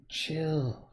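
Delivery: soft whispered chill. Real, not acted. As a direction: breathe the word to the dog. Whispered to dog.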